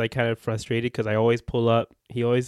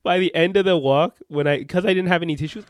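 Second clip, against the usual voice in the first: laughing; 7 semitones higher, 6 dB louder than usual. Real, not acted. Laughing story.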